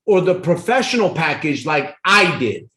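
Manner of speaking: professional pushed up and held; stress on professional. Shown as a demonstration. Salesman showing Cindy the package he chose, stressing professional. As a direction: lean on the word professional as the best pick. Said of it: "I emphasize the word pro or professional more, like my tonality".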